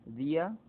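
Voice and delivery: Día with the í stressed, rising; Día in two beats, weight on í; stress on the weak vowel. Shown as a demonstration. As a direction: lean on the í in Día, lifting at the end. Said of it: "recae sobre la débil la mayor fuerza de voz".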